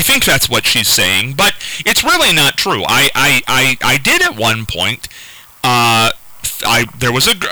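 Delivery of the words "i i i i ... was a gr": halting, repeated false starts; stuttering. Real, not acted. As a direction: stumble over the first words. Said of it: "he's asking why I'm stuttering".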